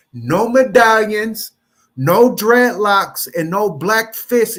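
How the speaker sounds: slow, deliberate laying down of rules; emphatic decree. Retold or imitated. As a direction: spell out each ban slowly. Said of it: "until he said".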